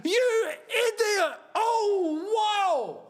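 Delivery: high, slow exasperated laugh; disbelieving laugh at the player; laughing in disbelief. Real, not acted. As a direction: laugh through the frustration. Reacting to a missed chance.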